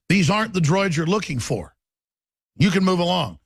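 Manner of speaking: Jedi mind trick. Retold or imitated. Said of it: "the famous clip from episode four, Star Wars".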